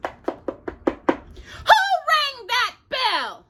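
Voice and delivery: slow high gatekeeper calling out. Acted. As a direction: peer out and demand who's there, slowly. Gatekeeper answers the door.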